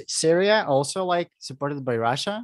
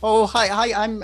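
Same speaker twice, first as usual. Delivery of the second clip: mock Asian accent; 6 semitones higher than usual. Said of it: "I can't even do the J-, uh, Chinese a-, accent".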